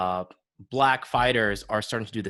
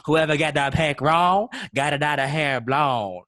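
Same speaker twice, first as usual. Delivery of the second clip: Louisiana Creole accent, louder; loud Creole-accented announcement; 2 semitones higher, 4 dB louder than usual. Shown as a demonstration. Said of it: "That's my Creole accent".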